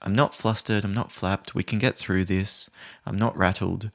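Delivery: composed, steady self-assurance; calm, confident. Acted. Trainer modelling a response to someone yelling, calm and confident. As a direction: say it evenly, unruffled. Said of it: "remain calm and probably in that confident way".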